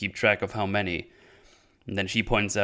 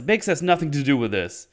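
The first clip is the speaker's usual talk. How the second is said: mild mock yell, pitch raised; half-voiced yell, higher than usual; retold yell; 5 semitones higher than usual. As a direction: imitate an exasperated outburst without full volume. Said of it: "And he yells".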